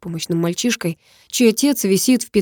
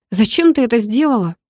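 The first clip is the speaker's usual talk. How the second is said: higher, sharper demand; harsh question; 4 semitones higher, 3 dB louder than usual. Acted. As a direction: ask too harshly. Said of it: "спросил я жёстче". (жёсткий вопрос)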